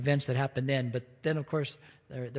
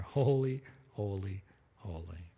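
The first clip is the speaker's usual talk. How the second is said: fading to a near whisper, much softer; hushed awe; 4 semitones lower, 7 dB quieter than usual. Acted. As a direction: let each holy die away in wonder. Beings just standing there, hushed.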